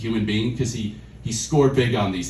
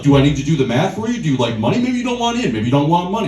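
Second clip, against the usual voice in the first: pushy, louder hard sell; aggressive crypto bro; 4 semitones higher, 5 dB louder, faster than usual. Retold or imitated. The friend pressuring him to buy in, louder and pushy. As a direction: needle him into buying. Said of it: "just all fucking aggressive".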